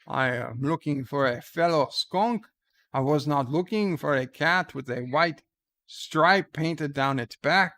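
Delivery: put-on a hesitant, lightly done French accent, Pepe style; attempted French accent. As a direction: try a shaky French accent on the skunk line. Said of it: "I cannot do a French accent. Oh, maybe I can".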